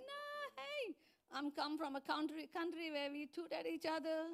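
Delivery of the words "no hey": playful refusal. Retold or imitated. Refusing the kids, high.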